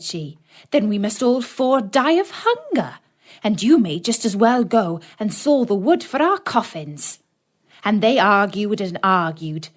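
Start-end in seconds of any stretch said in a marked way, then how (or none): 0.7-7.2 a touch louder, scornful wife; mock her husband, lightly voiced; wife scorning husband, a touch louder; scornful stepmother.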